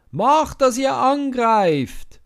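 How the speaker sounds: very loud, very high, slow yell; the fat cook yelling to attack; battle cry. Acted. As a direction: scream the order. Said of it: "ruft er".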